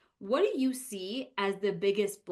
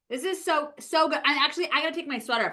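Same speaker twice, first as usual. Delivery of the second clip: excited; 5 semitones higher, 4 dB louder, faster than usual. Real, not acted. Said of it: "I'm getting so excited about all this".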